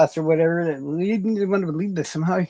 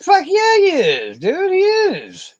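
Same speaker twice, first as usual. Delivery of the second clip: high, loud hyped cheer; hyped yell; 6 dB louder, much slower than usual. Real, not acted. Streamer hyping himself up to chat, high loud cheer. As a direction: cheer it like a crowd.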